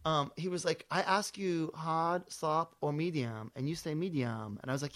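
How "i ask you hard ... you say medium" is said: slow, deliberate mock Asian-accented English; imitated Asian accent. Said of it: "it's funnier with the accent".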